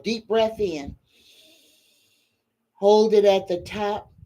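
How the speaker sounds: gentle meditation-style breath cues; guided breathing. Acted. Leads a breathing exercise.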